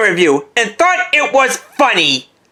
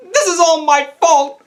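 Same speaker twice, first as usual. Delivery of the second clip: hammed-up grief, breaking into sobs; tearful wailing; 3 semitones higher than usual. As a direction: wail with guilt, drawing out the last words. Weeping over supposedly dead Jake.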